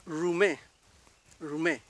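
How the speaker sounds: RUMÉ with untrilled first r; Mapuche initial r. Shown as a demonstration. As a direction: begin RUMÉ with an English-like r. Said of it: "Esa es la forma".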